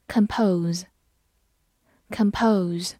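slow, drawn-out word reading; slow review reading. Shown as a demonstration. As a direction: say compose slowly for review. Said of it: "复习一下今天学过的单词。". (慢速复习朗读)

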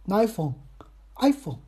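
"iPhone" said slowly, stressed on the "I"; corrected pronunciation. Shown as a demonstration. Host correcting his English for listeners, slow and careful. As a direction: practise "iPhone" carefully, front-heavy. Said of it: "尽量就给它改过来".

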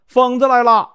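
put-on high startled yell of a scared old woman; panicked shout of fright; frightened shout. A narrator's reading. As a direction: cry out in alarm. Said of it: "吓得大喊".

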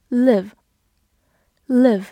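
"Live" drawn out very slowly with a short i; careful pronunciation. Shown as a demonstration. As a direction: stretch out "live" to show its sound. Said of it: "拓展一下和life比较相似的几个词". (把"live"拉长慢读，短元音i)

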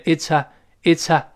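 "it's a" run together as it-sa; linked pronunciation. Shown as a demonstration. Teacher showing linking to students, "it's a" as one slow unit. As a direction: join the ts of "it's a" straight onto the vowel. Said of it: "又连读到一块儿".

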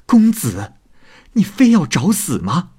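high, indignant rebuke; angry. A narrator's reading. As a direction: call out angrily, pitch jumping up. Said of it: "生气地说". (生气地高声质问)

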